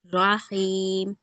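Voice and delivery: रहीम stretched out very slowly; teacher reciting रहीम slowly; slow recitation. Shown as a demonstration. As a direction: draw out रहीम syllable by syllable. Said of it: "For example क्या था".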